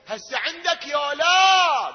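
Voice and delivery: high, loud shouted question; calling out. Acted. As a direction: fling the question out, stretching the last word. Preacher calls out the question. (نداء عالٍ ممدود)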